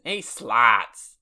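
put-on brash Boston accent calling out. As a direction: shout it like a Boston local. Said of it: "kind of a Boston accent".

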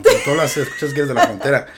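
laughing through the words. Real, not acted. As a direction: chuckle as you speak, loud and amused. Laughing while teasing accent.

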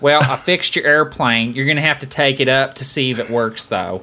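lightly played Southern mechanic; Southern accent. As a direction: put on a Southern accent, casually unsure. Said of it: "somebody in a Southern".

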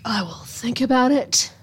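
whispered aside from a gruff guardian; imitating a hushed grudging reply; mock whisper. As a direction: breathe it out, no voice. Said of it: "And he's like".

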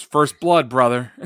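loud gloating growl; Ric Flair gloat. Retold or imitated. Commentator doing Flair gloating after the slap, loud. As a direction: savor it like a wrestler. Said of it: "Flair just goes".

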